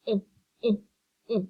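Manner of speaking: short "I", as the vowel in six; short I sound. Shown as a demonstration. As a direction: say "I" as a short, separate ih. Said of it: "can make the short I sound".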